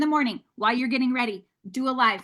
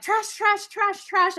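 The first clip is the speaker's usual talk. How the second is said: mock dismay; 9 semitones higher, slower than usual. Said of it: "I was like".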